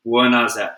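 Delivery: "Beurre Nazette" said the French way, with a light French accent; hint of French on "Beurre Nazette"; French pronunciation. Shown as a demonstration. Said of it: "the French call it".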